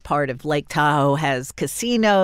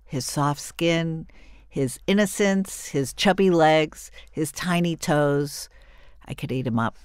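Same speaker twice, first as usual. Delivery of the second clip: tender gushing. Real, not acted. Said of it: "I'm calming down now".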